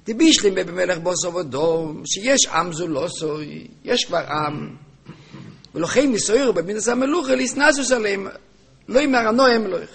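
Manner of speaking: sing-song Talmudic-style reading; reading text aloud. Acted. Teacher reading out the question on kingship, sing-song reading. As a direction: chant the argument through, often lifting the pitch.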